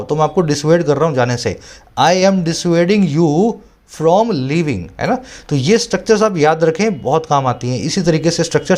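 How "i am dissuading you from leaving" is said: slow, deliberate reading aloud; slow dictation-style read; slow editorial reading. Acted. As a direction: read each phrase out slowly for students. Slow example sentence.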